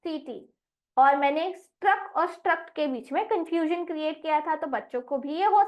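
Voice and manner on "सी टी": letters said slowly; slow spelling. Shown as a demonstration. Teacher giving the spelling to the class, slow. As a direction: spell it out deliberately. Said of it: "spelling क्या बनेगी".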